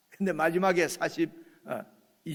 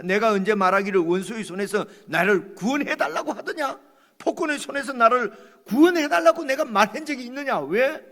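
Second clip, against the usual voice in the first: Job protesting; 6 semitones higher, 8 dB louder than usual. Acted. Job reading, heated.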